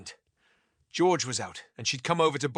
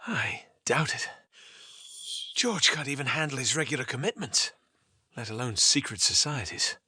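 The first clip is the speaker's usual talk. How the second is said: sighing. Acted.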